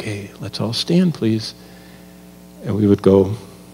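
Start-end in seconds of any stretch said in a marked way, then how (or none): 0.0-1.5 hushed, gentle, quiet, soft voice. A former professor recalls catching the sleepers in class, quiet voice. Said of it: "saying in a quiet voice".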